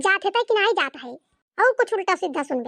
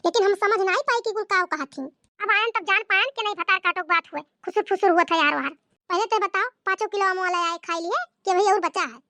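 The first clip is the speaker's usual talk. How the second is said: scolding mother-in-law. Acted. Mother-in-law scolding her daughter-in-law, lightly voiced. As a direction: play the nagging village saas.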